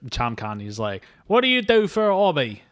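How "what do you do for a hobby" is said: loud mock question. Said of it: "'Cause he talks quiet".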